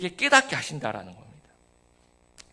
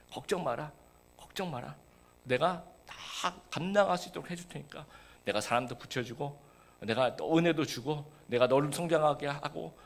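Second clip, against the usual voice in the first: God reassuring; 5 dB quieter than usual. Acted. God encouraging the pastor.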